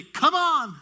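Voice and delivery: high, loud drawn-out call; cheering shout. Retold or imitated. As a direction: urge the runners home loudly. Mimics spectator cheering runners in.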